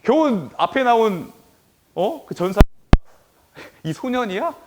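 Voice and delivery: lightly acted scoffing questions; mock their level in retold disbelief; imitated jeering. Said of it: "골리앗이 막 비웃고 난리가 났어요".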